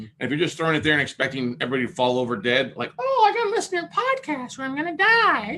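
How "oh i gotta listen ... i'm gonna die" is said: very high-pitched cartoon mouse voice; Mickey Mouse. Podcaster mocks others' hopes for listeners, high-pitched Mickey Mouse voice. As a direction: squeak it out as a high falsetto mock fan. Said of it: "that high-pitched voice that sound like Mickey Mouse".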